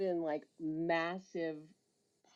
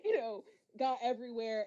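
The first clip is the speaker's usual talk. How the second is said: fake innocent excuse; 9 semitones higher than usual. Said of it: "I was like".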